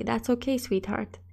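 soft, fading gentle reassurance; tender foster mother. Acted. Foster mother comforting the girl over her drawing, tender and soft. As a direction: comfort the little girl softly. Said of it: "She'd just smile nice and say".

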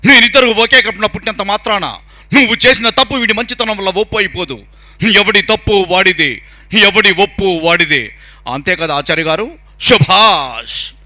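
stern village judge passing a verdict; Rajinikanth as Pedarayudu. Acted. Mimic as the dubbed village elder ruling on brothers, stern declamation. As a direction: pronounce judgement in an emphatic film-hero voice. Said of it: "Rajinikanth గారు పెద్దరాయుడుగా చెప్తే ఎట్లా ఉంటుంది".

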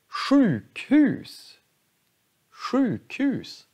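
sjukhus with both SJUK and HUS long; compound word stress. Shown as a demonstration. Teacher showing both parts of a compound stressed. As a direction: give sjuk and hus each a long vowel. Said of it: "så har vi sjuk och hus".

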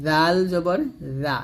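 "জাল জবর জা" with tongue tip on upper teeth; light th-like z in "জা"; thin "জা". Shown as a demonstration. Teacher showing the tongue position, thin "জা". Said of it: "দাঁতে লাগবে".

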